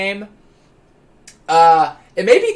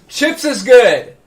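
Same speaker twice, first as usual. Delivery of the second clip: stretched slow and high; drawn-out catchphrase; 6 semitones higher, 7 dB louder, much slower than usual. Acted. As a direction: draw every word out slowly.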